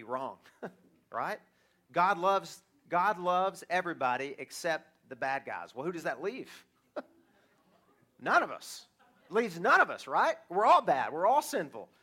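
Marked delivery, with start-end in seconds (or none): 1.9-11.9 louder, emphatic declaration of everyone's guilt; forceful preaching. Real, not acted. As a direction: drive the point home hard.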